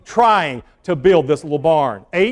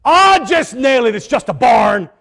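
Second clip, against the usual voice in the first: careless shrug; 5 semitones higher, 4 dB louder than usual. Retold or imitated. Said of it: "this is what our statement was".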